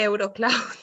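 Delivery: Eurocloud said eh-oo-do-cloud; Spanish accent. Shown as a demonstration. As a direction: Eurocloud with Spanish vowels and tapped R. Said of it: "I say E".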